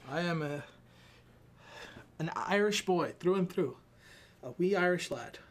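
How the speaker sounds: playful attempt at Irish that drifts Scottish; botched Irish accent. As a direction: put on a badly faked Irish accent. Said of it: "can't even do an Irish accent".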